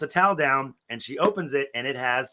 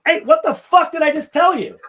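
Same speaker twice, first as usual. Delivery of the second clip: loud, high-pitched exasperated outburst; angry snap; 14 semitones higher, 9 dB louder than usual. Retold or imitated. Manager catching a coworker gossiping after a warning, angry snap. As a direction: snap at someone who ignored your warning. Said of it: "I snapped at her bad".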